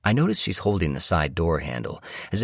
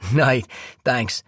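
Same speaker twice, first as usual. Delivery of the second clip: valet voice; 8 semitones higher than usual. Acted.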